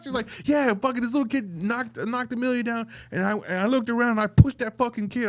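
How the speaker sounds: high-pitched mock wife voice; mimicking wife. Husband imitates his wife admitting she pushed a kid in a high voice. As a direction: squeak it out like his wife confessing.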